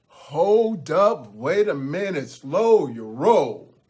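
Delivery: firm, drawn-out interjection; goats butting in. Acted. Billy Goats stop the beaten troll to offer friendship, firm. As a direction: halt him, stretching "slow your roll".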